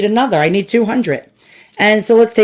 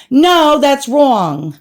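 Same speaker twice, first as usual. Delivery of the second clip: slow, stretched, higher mock "No, that's wrong"; exaggerated drawn-out denial; 4 semitones higher, much slower than usual. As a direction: overplay the denial, dragging "No". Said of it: "they didn't say it like that".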